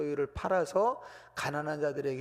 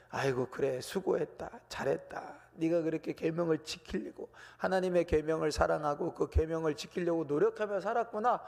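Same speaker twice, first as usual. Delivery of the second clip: tender praise. Retold or imitated. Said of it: "하고 인정해 주시는 거예요".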